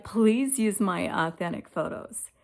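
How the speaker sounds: retold plea, leaning on "Please"; mild begging. Woman retelling how she begged Chat GPT, mildly pleading. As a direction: act out pleading, without raising your voice. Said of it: "to be begging".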